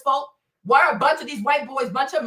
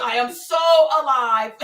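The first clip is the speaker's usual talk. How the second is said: ordinary talk, nothing marked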